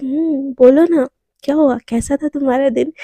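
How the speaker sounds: a touch of loving tenderness, lightly voiced; lovingly. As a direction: ask about her day with mild affection. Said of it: "एकदम बड़े प्यार से बोलती है".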